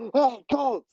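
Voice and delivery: high, mock yell of a name. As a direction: call out to Colt across the room. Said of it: "she yells".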